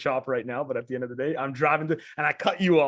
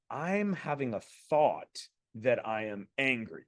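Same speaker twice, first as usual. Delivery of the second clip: softer, slower, stepping back from the anger; slow, soft detached thought; 4 semitones lower, 5 dB quieter, slower than usual. Shown as a demonstration. Coach demoing level two to the men, slow and softer. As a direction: say it slowly as if watching yourself. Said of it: "level two now, I'm saying".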